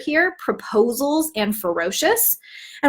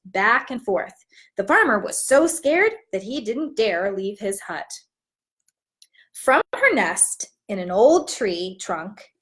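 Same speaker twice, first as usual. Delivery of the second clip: put-on warm, even picture-book narration for young listeners; storybook read-aloud. Teacher reads the story aloud to her class, storytelling voice.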